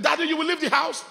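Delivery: put-on high, questioning child voice; a daughter asking in disbelief; a child's surprised question, lightly voiced; surprised little girl.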